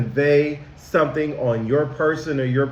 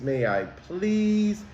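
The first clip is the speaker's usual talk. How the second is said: gentle polite ask; 6 dB quieter, much slower than usual. Shown as a demonstration. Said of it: "He asked".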